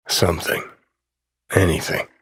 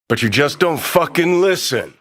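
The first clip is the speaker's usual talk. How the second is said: louder and higher, stressing fucking; frustrated yell; 5 semitones higher, 4 dB louder than usual. Acted. Johnny fed up with V ignoring him, yelling. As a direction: snap at him for not listening.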